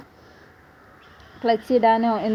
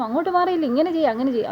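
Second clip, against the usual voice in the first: higher, mock scolding barked orders; lightly imitating a rough officer scolding; 6 semitones higher, faster than usual. Police officer at the driving test scolding every candidate, in a mock scold. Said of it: "എല്ലാവരെയും വഴക്ക് പറയുന്നു".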